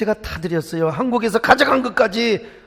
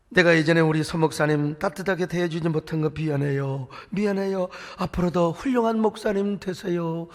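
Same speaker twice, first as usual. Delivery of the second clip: mild tearful apology; 3 semitones lower, 6 dB quieter than usual. Retold or imitated. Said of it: "눈물을 철철 흘리면서".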